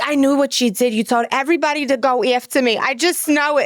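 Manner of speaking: mock-accusing New York mom; Fran Drescher. Mom accusing her daughter, mock-indignant Brooklyn accent. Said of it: "talks like Fran Dresser".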